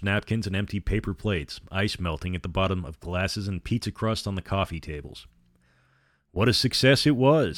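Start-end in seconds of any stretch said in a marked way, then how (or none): 6.3-7.6 pleased, high and loud; a vampire savoring the party's success; gloating vampire. A narrator's reading. Vampire gloating to Althea, high and loud. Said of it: "said the vampire".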